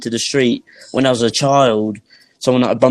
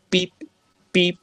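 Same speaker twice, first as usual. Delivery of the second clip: imitated beep; 7 semitones higher, 4 dB quieter than usual. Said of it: "that beeping noise".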